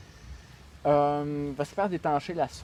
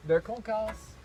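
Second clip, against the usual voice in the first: poetry recital; 5 semitones higher, slower than usual. Acted. Continues declaiming the poem.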